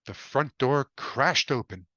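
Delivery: usual speaking voice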